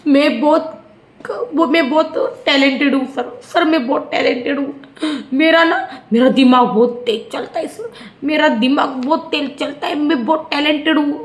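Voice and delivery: lightly voiced tearful plea, laughing through it; hammed-up show of self-praise to the host; mock fake acting. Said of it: "pure acting चालू हो गई".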